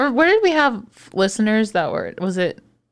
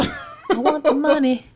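slow, laughing echo; 6 semitones higher, much slower than usual. Acted. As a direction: drawl it out through a laugh. Teasing echo of co-host.

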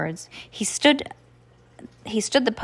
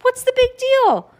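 put-on whiny kid voice; 6 dB louder than usual. Brother protests.

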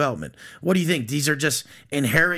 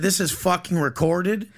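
mock annoyed; 3 semitones higher than usual. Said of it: "I said it normal".

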